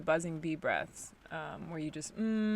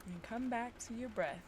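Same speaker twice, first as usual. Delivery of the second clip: guided breathing; 7 dB quieter than usual. Acted. Leads a breathing practice.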